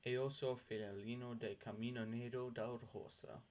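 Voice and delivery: each syllable said slowly and clearly: "Eoso filalino de camino negro da rosa"; slow clear dictionary pronunciation. Shown as a demonstration. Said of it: "Let's hear that one more time".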